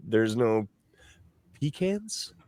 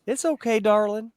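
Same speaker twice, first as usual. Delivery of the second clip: put-on Southern accent; 9 semitones higher than usual. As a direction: imitate a Southern lady asking where you're from. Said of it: "they'd be like".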